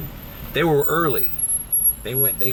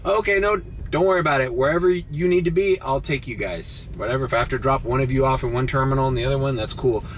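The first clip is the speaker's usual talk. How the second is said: reassuring; 2 semitones higher, faster than usual. Retold or imitated. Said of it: "I'm like".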